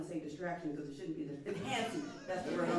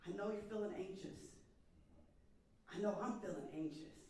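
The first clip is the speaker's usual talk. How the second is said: steady, unhurried reassurance with long pauses; still, assured and patient; calm assurance; 4 dB quieter than usual. Shown as a demonstration. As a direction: reassure them gently, leaving space. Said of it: "it's a posture of assurance".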